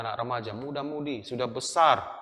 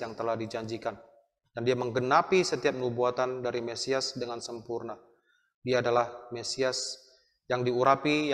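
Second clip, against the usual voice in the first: earnest closing prayer. Acted. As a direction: pastor leading the class in prayer.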